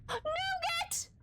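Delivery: high frantic yell of a name; panicked shout. Real, not acted. Streamer yelling for Nougat in panic.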